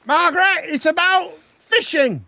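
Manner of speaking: high, slow calling voice; Little Britain character. Retold or imitated. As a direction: draw it out in a high comic voice. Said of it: "Little Britain".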